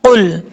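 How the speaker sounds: कुल with a full, thick qaf; heavy qaf. Shown as a demonstration. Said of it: "इसको कुल नहीं पढ़ना".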